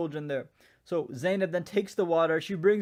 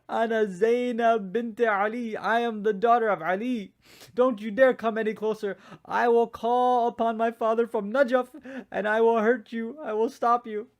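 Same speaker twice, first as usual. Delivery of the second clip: higher and louder, proud and defiant; a daughter of Ali standing her ground, raised and fierce; defiant threat; 4 semitones higher, 3 dB louder than usual. Acted. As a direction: warn the rider off with fierce pride. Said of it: "She says".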